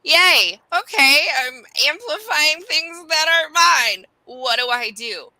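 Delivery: high, loud mock cheer turning to panic; mock yay. Recalling finding out she's open, mock cheering. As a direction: cheer then panic, hammed up. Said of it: "And I'm like".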